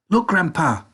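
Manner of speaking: put-on an excited boy pointing something out; cried out. A narrator's reading. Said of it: "cried Charlie".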